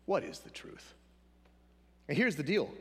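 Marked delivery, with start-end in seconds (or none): 0.1-0.9 breathy whispered repeat of Pilate's question; hushed whisper. Retold or imitated. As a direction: let it drop to a whisper.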